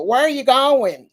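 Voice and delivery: lightly put-on Southern country drawl. Mimicking the country talk they never had, in a Southern drawl. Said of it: "had that Southern drawl".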